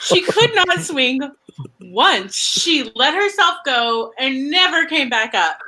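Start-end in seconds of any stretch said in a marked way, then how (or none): 0.0-2.3 giggling through the words; laughing while telling it. Real, not acted. Laughing retelling of Angela's failure.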